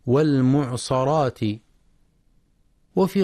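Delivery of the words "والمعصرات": والمعصرات with an "a" after the sad; fatha mistake. Shown as a demonstration. Teacher showing a common misreading, fatha on the sad of والمعصرات. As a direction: say "mu'sarat" instead of "mu'sirat" in والمعصرات. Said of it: "يخطئ ويقرأها بالفتح".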